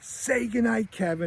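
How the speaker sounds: high-pitched imitation of a mother; exasperated mom. Mom orders Kevin to say goodnight, high imitation. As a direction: prompt a child for goodnight, voice lifted. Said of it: "she's like".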